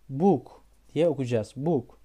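book with a long uu, buuk. Shown as a demonstration. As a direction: stretch the oo in book. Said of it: "Uzun iki tane U şeklinde". (book, uzun u ile)

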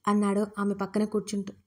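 ordinary delivery, nothing marked

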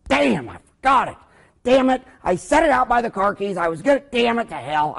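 imitated outburst of frustrated swearing; mock exasperated cursing. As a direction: act out a grumpy patient cursing himself. Acted grandpa cursing forgotten partial.

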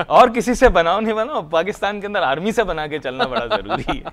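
lively, laughing advice; laughing jibe. Real, not acted. Guest joking about getting along with the army, laughing. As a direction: say it through real chuckles.

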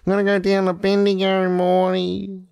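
high Australian cartoon voice; cartoon Rick impression. Quoting the Australian parody episode to co-host, cartoon impression. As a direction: quote it high, in mock-Aussie cartoon style.

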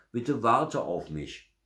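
high, slow, drawn-out call; pleading call. A narrator's reading. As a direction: beg someone far away to wait. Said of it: "so laut er konnte". (flehendes, gedehntes Rufen)

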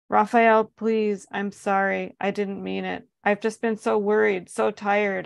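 pleading. Acted. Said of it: "I pleaded".

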